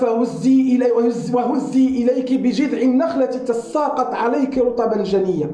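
rapid chanted Quranic recitation. Acted. Preacher recites the verse to the congregation, fast and chanted. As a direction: recite the verse in one quick flowing breath.

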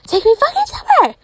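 mock exasperated shout. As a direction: yell it up high, fed up. Retold outburst at sugar daddy.

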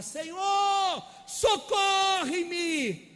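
high, drawn-out shout of help; desperate cry for help. Retold or imitated. Peter sinking in the sea, crying to the Lord, high desperate shout. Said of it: "ele começa a gritar".

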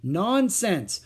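slow, loud scolding; scolding mother. A narrator's reading. Mother scolding her daughter, firm and slow. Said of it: "scolded Mother".

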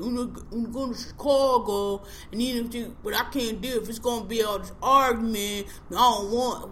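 put-on mush-mouthed parody of a Baltimore accent; mock Baltimore accent. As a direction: garble a Baltimore accent as if through a mouthful of marbles. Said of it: "Sound like they got a mouthful of marbles".

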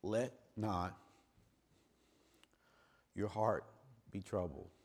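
quiet, gentle quoting of dad; soft fatherly comfort. Retold or imitated. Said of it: "he said these words to me".

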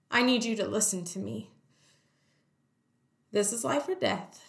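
measured nurse's instructions, with deliberate pauses; retold in earnest, firm and concentrated, phrase by phrase; intense focus. Nurse kneels before screaming labouring mother, intensely focused. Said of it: "like, it was game time".

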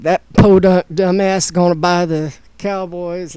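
slow, drawn-out mock Southern accent; lightly put-on Southern accent, unhurried; Trump, Southern accent. Host voices Trump bad-mouthing a rival owner, mock Southern accent. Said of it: "I just gave Trump a Southern accent".

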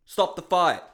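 replaying his furious TV scream, ending in a wordless howl. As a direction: yell at the referee through the TV. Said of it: "screaming at this T V".

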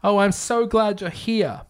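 high-pitched mock woman's call; put-on relieved woman calling out; yelling woman. A narrator's reading. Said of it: "Then a woman's voice yelled".

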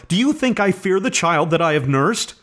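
high, frantic defiance; indignant cry, pitch held high; impassioned protest. A narrator's reading. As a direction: challenge him as a desperate mother. Acted quarrel of frantic mother.

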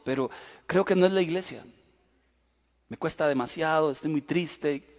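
resigning to his pastor in writing, soft and low; sad farewell letter. Retold or imitated. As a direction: read it like you are giving up. Farewell email read out.

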